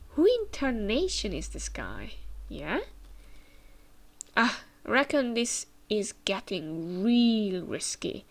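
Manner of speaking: a hint of an old Western prospector's Southern accent; Southern cowboy accent. Reading the inventor's lines in a mild Southern cowboy accent. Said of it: "this accent thing is just".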